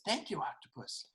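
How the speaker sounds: very soft little thank-you; hushed, polite thanks; meek thanks. A narrator's reading. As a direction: say it small and quiet. Boy's meek thanks to octopus.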